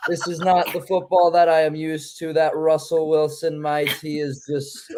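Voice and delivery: badly faked British accent. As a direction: struggle to keep up a mock British voice. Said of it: "equivalent to Chet Hanks speaking patois".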